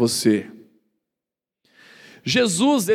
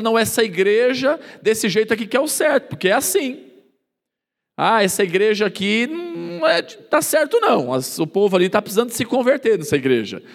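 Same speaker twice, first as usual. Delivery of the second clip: higher, self-righteous verdict; judgmental churchgoer; 3 semitones higher than usual. Retold or imitated. Member judging another church, raised, self-righteous. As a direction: judge the other church smugly.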